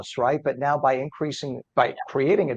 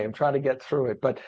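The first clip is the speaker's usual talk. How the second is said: frog voice. Real, not acted. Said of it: "frog voice that I have today".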